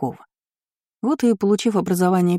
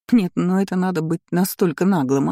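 ordinary delivery, nothing marked

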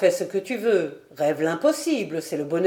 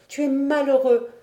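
higher, distressed daughter, lightly acted; a touch of sobbing sorrow; tearful; 7 semitones higher, 4 dB louder than usual. A narrator's reading. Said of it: "répondit Diane en sanglotant". (un peu éplorée)

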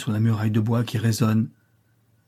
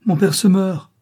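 higher and louder, panicked scream; desperate scream; 9 semitones higher, 6 dB louder than usual. A narrator's reading. Juana screams for help, father dying, in panic. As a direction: scream it as he dies before her. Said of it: "Juana pousse un cri".

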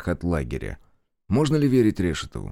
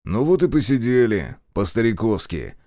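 a sharp, curt retort, pitched up and louder; резко; 3 semitones higher, 3 dB louder than usual. Acted. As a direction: cut the talk off abruptly. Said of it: "резко сказал Решетов". (резко, с раздражением)

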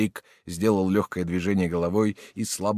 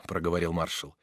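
plain reading voice

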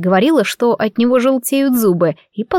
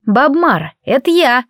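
calling out; 4 semitones higher than usual. A narrator's reading. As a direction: announce yourself across the flat. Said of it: "крикнула".

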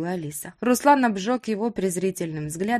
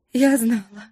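sobbed; 3 semitones higher, 5 dB louder than usual. A narrator's reading. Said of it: "всхлипнула Алиса".

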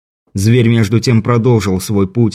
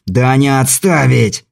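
barking; 3 semitones higher, slower than usual. Acted. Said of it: "рявкнул Кобельков".

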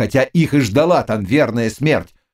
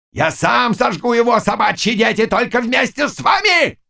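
defiant shout; 12 semitones higher than usual. Acted. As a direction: shout back his threat. Zagloba shouting back defiantly.

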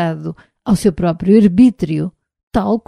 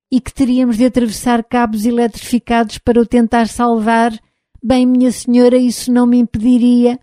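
higher, louder, insecure robot servant; an unsure robot answering politely; timid robot voice; 6 semitones higher, 4 dB louder than usual. Acted. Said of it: "numa voz baixa e insegura". (voz de robô tímido e inseguro)

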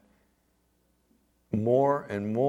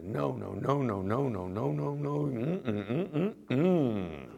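acted temptation. Dieter at the refrigerator losing control, acted temptation. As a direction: act out resisting, then giving in to food. Acts out resisting, then eating.

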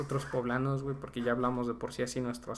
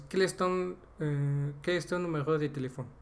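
halting French practice phrase; slow first part. Shown as a demonstration. Practising the French phone-number question, slow at the start. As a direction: feel out the first words slowly, with a hesitation. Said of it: "lo dije la primera parte lento".

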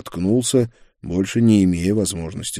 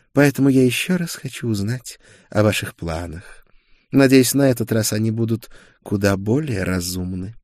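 higher-pitched, insistent negotiator; firm sorceress; 4 semitones higher, 4 dB louder than usual. A narrator's reading. Sorceress presses the duke for his plans, firm. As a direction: press him for an answer, voice raised.

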